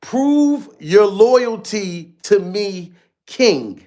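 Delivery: slow, drawn-out command; slowly mocking the order; mock rapper command. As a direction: stretch each word like a boss giving orders. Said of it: "Glover said".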